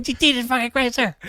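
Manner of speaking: high, loud imitation of a frustrated dispatcher; hammed-up exasperated yell; exasperated shouting. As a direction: yell it down a bad phone line. Imitating frustrated dispatcher on bad connection.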